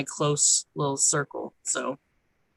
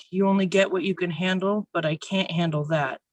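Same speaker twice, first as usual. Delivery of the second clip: measured spoken-word poetry reading; poem recital; 2 semitones higher than usual. Acted. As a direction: read it aloud like a poem on stage.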